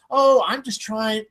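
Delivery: slow, lightly sweet imitation; mock sweetness. Imitating a woman excusing her site, mock sweet. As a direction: put on a touch of innocent sweetness, slowly. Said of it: "she says it all sweetly".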